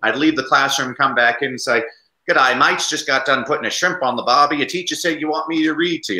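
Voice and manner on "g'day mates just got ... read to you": lightly put-on Australian accent, cheerful; playing an Aussie visitor for the kids, Australian accent; Australian Pete. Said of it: "get Australian Pete to come read".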